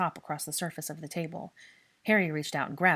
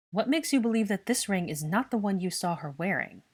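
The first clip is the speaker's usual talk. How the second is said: dubious; 4 semitones higher, 4 dB louder than usual. Acted. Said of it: "Draco asked dubiously".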